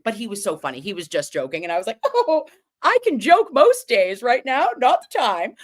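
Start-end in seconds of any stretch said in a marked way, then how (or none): 2.0-5.5 high, put-on scolding; high-pitched mock exasperation; mock reproach. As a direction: scold the joker in a high, hammed-up voice. Mock reply to his joke.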